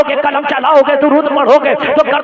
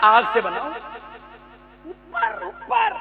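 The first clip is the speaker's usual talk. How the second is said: higher, haughty refusing devil; arrogant Iblis; 8 semitones higher, 4 dB quieter than usual. Acted. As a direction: sneer your refusal like proud Iblis. (घमंडी इब्लीस की ऊँची आवाज़)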